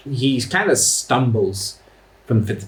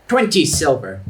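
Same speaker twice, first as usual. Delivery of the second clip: goblin; 3 semitones higher than usual. Acted. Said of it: "The goblin nods and goes".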